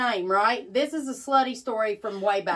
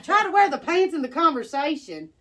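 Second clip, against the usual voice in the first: a scoffing repeat of "Try to wear the pants in the conversation?"; incredulous echo; 3 semitones higher, 4 dB louder than usual. Retold or imitated. Echoing the commenter's jab back at him, incredulous. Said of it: "And I'm like".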